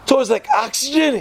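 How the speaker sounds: high, incredulous repeat of oxygen; mock disbelief. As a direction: echo the answer as if it's absurd. Rebbe repeats answer in disbelief.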